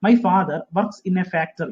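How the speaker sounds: every word drawn out very slowly; teacher reading "My father works in a factory" slowly; slow model sentence. Shown as a demonstration. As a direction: dictate it slowly. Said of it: "ഇവിടെ in ഉപയോഗിക്കണം".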